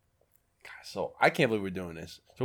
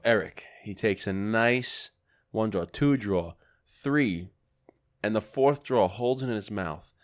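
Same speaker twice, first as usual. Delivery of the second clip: mock commentary; 2 semitones lower than usual. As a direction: narrate like a play-by-play. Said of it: "Now, commentary".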